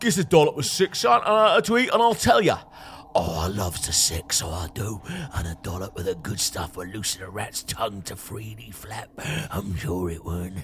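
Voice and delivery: Cockney rat. Acted. Rat offering to tell for a dollop, Cockney rat voice. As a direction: play a Cockney rat bargaining for a treat. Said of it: "as long as it's a Cockney rat".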